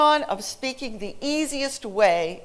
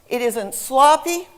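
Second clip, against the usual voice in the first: ordinary talk, nothing marked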